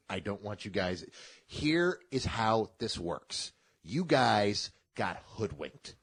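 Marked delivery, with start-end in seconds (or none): 1.5-5.9 slow and deliberate, spelling it out; slow, emphatic explanation. Real, not acted. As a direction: lay it out slowly for them. Spelling it out to fans.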